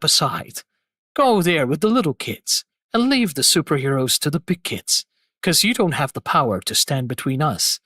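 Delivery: low, condescending tough-guy voice; unhurried, dismissive bully in a game; character impression. Shown as a demonstration. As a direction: sneer down at a rival who doesn't belong. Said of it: "that voice I tried to do the impression of".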